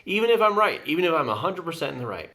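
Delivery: fast, mock-outraged insistence; mock indignant. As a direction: play the one who insists they're right. Pushing back on a self-justifying thought.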